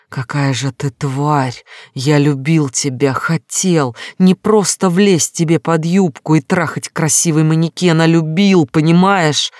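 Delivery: anger building to a shout; furious outburst. Acted. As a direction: hurl the words at her in fury. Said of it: "Серые глаза сверкнули яростью".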